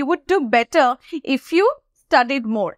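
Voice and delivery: very slow, careful model sentence; slow teaching model. Shown as a demonstration. Teacher modelling a suggestion for students. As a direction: read each word clearly and slowly. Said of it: "যেরকম আমি যদি বলি".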